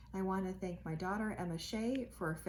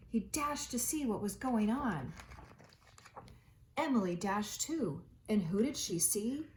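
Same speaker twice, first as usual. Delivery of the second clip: gentle read-aloud storytelling voice; reading aloud to a child at home; storybook narration. A narrator's reading. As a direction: read it like a bedtime picture book. Reading picture book to children.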